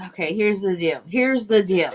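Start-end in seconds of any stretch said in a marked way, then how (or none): 1.1-1.9 chipmunk voice. Real, not acted. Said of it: "You sound funny".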